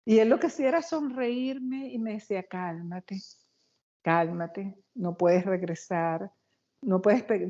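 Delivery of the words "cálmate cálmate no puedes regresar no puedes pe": calm reassuring Jesus. Retold or imitated. Jesus again calming the panicked woman, slow and gentle.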